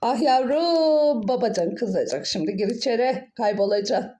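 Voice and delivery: a worried old aunt, lightly voiced; fussing old aunt. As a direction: scold the child like a fretting aunt. Aunt character scolding child.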